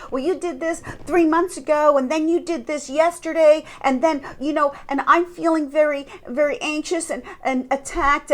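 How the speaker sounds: mock aggrieved run-on complaint; berating. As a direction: pile up old grievances, acted out. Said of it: "they'll berate you and just attack you".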